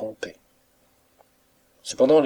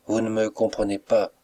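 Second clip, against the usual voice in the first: plain reading voice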